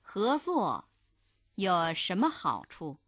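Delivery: measured model reading, pausing after 合作; phrase by phrase. Shown as a demonstration. Language teacher modelling the dialogue for learners, phrase by phrase. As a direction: split the question into two careful phrases.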